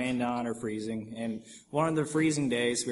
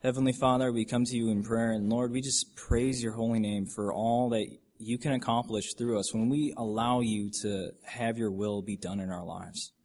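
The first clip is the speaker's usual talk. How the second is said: sincere, measured public prayer; closing prayer; 2 semitones lower than usual. Real, not acted. Closing the talk in prayer to the Lord, reverent. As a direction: address God reverently, leading the group.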